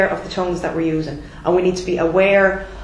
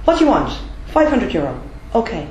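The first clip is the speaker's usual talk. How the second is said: curt and direct; 2 semitones higher than usual. Shown as a demonstration. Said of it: "not rude, but direct".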